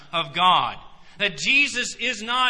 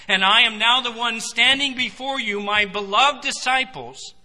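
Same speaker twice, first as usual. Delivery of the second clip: much louder, preaching at full force; ringing proclamation; 8 dB louder than usual. Acted. Jesus telling his disciples who he is, loud and fervent. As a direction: proclaim it to the back row.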